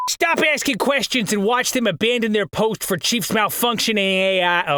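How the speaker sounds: badly put-on character voice; really bad voice. Narrator attempting a line in a bad voice. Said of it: "that was a really bad voice".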